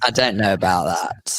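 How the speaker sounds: slow Geordie drawl; Geordie accent. Acted. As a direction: put on a Geordie accent, drawn out. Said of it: "we'd have to talk like that".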